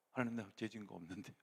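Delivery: hammed-up indignant complaint; angry prayer. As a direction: argue with God in mock anger. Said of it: "막 이러면서 화내요".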